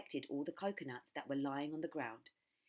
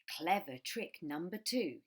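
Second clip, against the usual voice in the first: slow gloating; 3 dB louder, slower than usual. Acted. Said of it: "he said to himself".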